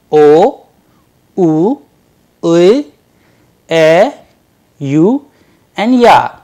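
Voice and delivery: loud, clearly separated vowels; Russian vowels. Shown as a demonstration. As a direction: call out each vowel loudly. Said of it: "Let's repeat them once again".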